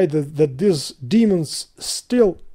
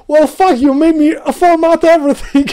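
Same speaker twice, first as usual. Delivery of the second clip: louder, higher angry rant; frustrated outburst; 8 semitones higher, 5 dB louder than usual. Real, not acted. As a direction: let the frustration burst out. Ranting about the failed install.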